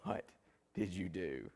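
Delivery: furious mom. Retold or imitated. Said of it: "And she said".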